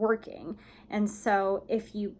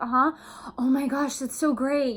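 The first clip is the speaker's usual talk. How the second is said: excited; 4 semitones higher than usual. Shown as a demonstration. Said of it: "you're excited".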